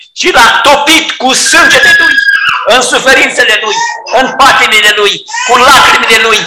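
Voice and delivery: impassioned sermon climax; fervent preaching. Acted. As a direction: preach with rising passion. Preacher at full force.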